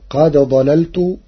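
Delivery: قد ضللت بإدغام الدال في الضاد نطقا واحدا; أدغم دال قد في ضاد ضللت; إدغام الدال في الضاد. Shown as a demonstration. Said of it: "بإدغام الدال في الضاد". (قراءة ورش بالإدغام)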